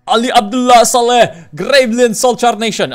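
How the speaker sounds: loud, high, mock Arab accent. Streamer trying out a put-on accent, loud mock Arab accent. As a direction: belt it out in a caricatured Arab accent. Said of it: "I found my stupid racist, um, accent".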